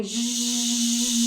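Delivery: long buzzy zh exhale; zhuzh sound. Shown as a demonstration. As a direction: buzz a steady zh. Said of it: "you're going to do it to a zhuzh".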